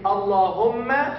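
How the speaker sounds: Allahumma drawn out slowly, each syllable clear; slow teaching demo. Shown as a demonstration. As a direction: stretch out Allahumma with a doubled l and m. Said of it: "I will say it slowly".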